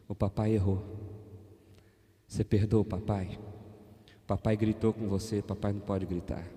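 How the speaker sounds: soft, gentle father asking forgiveness; tender apology. Retold or imitated. Father apologizing to his son at bedtime, soft and tender. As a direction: speak low and tender to a child. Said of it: "falei assim".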